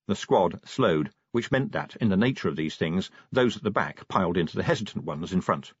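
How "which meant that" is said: plain reading voice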